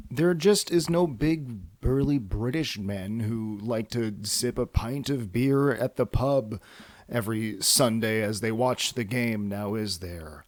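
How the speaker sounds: slow mock British pub voice, lightly done; practicing a British accent for pub listeners. A light British accent for pub listeners. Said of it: "that was me practicing".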